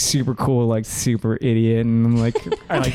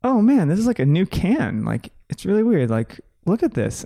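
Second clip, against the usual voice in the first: excited quote; 7 semitones higher than usual. Retold or imitated. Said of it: "I'm like".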